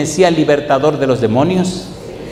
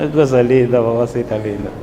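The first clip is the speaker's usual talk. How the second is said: shuffling grandma; 4 semitones lower than usual. Retold or imitated. Pastor mimics a frail old granny walking, lightly voiced. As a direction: croon it like a frail abuelita. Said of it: "como esas abuelitas".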